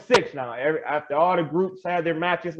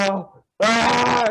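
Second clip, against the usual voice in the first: higher, drawn-out scared wail; mock scared; 5 semitones higher than usual. Waiting for the winner to be announced, mock scared. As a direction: imitate a nervous wail, half laughing. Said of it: "I'm just scared".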